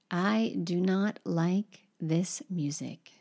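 soft, slow whispered English gloss; whispered translation. Shown as a demonstration. Teacher whispers the English meaning after the French, slowly. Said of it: "translation after example".

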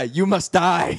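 slow, mechanical toy voice; robot voice. Retold or imitated. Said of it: "a mechanical voice".

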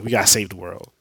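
loud, pressing plea to act; urgent call. Retold or imitated. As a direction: push hard, the world's at stake. Flash urging Batman to act.

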